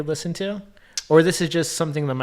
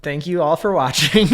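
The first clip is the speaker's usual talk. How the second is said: stilted sign-off; 4 dB louder than usual. Retold or imitated. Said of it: "you're kinda mixed in with a Canadian accent".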